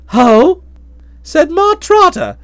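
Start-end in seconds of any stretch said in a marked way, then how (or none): 0.1-0.6 a loud, challenging "Oh?"; mock-imperious loud query; ringing voice. A narrator's reading. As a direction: let the "Oh?" ring across the room. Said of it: "her voice rang through the room".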